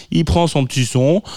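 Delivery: words catching in a rough throat; frog in throat. Real, not acted. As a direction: speak through a frog in the throat. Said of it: "j'ai un truc dans la gorge".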